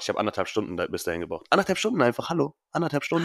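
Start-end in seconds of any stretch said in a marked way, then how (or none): 1.5-3.2 indignant, higher disbelief. Real, not acted. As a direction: complain in high disbelief. Outraged about long train trip.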